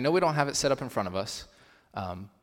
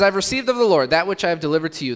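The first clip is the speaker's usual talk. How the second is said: scripture reading; 5 semitones higher, 7 dB louder, faster than usual. Shown as a demonstration. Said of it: "It says".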